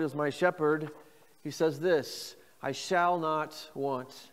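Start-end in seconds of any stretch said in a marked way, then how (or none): 2.6-4.3 I shall not want, spaced out slowly; slow solemn phrase. Shown as a demonstration. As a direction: say it slowly for them to repeat. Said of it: "Say that with me".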